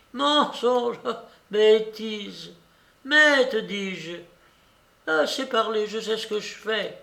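put-on high, indignant old lady; imperious grandmother cutting someone off; bossy old babouchka, dismissive. A narrator's reading. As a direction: brush off the advice in short high bursts.

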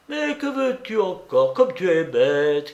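mock-scold him playfully; Blanche crying out. Blanche teasing the gloomy narrator, lightly voiced. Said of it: "criait-elle tout en riant".

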